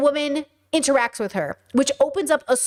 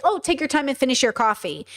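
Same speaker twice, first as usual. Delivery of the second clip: lightly voiced easygoing offer to take time; gentle, unhurried. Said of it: "She said it like".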